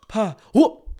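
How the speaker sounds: put-on high, small toddler voice; little brother voice. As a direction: squeak it out like a baby.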